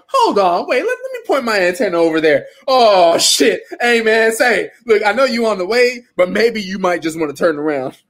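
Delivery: high, loud, alarmed backpedalling; King Kai. Acted. King Kai urging Goku to turn around, alarmed. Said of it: "if he's that deathly afraid of Frieza".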